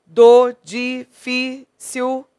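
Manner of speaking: slow, loud, syllable-by-syllable scansion; teacher scanning the verse aloud to count syllables. Shown as a demonstration. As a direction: pull the syllables apart and join vowels. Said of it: "De novo".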